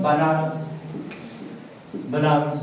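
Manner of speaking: "Bananas" said as ba-NA-ras; English-era name. Shown as a demonstration. Teacher giving the name the English used, "Bananas" as ba-NA-ras. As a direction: say "Bananas" as Banaras, stress in the middle. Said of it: "cómo se llaman los ingleses".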